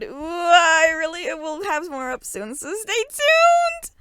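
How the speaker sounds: high, squealing gush; excited author. Acted. Teen author hyping her next chapter, high giddy squeal. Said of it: "I get really excited about these".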